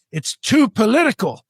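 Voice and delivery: high-pitched mimicry of the woman; mock objection. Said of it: "this is the clincher".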